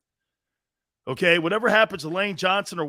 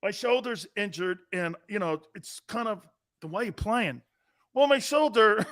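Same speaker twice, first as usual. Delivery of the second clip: mock whimpering QB; 3 semitones higher, 4 dB quieter than usual. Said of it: "He whimpered".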